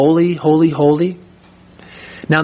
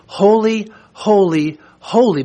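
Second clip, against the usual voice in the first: each "holy" set apart, the first and last "holy" pitched high; emphatic triple repetition; 5 semitones higher, slower than usual. Shown as a demonstration. Preacher explaining the seraphim's call, emphatic separated "holy, holy, holy". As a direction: punch out "holy", pause, "holy", pause, "holy". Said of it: "It's beyond a matter of emphasis".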